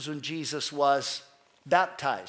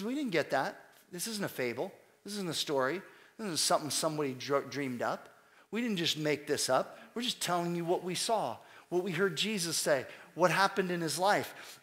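hushed earnest apostle; 5 dB quieter than usual. Retold or imitated. Preacher voicing Peter's denial.

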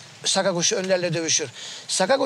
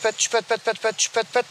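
chirpy imitation of a goldfinch calling; whistle-like chirps mimicking a bird; a man mimics the goldfinch's call note. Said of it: "damesiyle çağırır".

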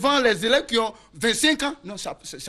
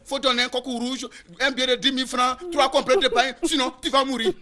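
spirit's demand. Acted. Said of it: "Génie dit que".

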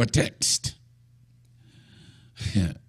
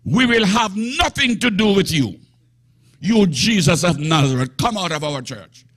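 demon voice; 2 semitones higher than usual. Acted. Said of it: "hear what the man said to Jesus".

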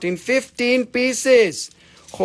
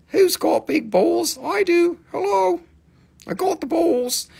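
mock brag; 10 semitones higher than usual. Bragging in a high voice.

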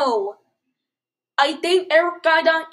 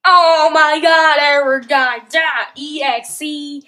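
startled shout; 10 dB louder, slower than usual. Real, not acted. Jump scared by the game.

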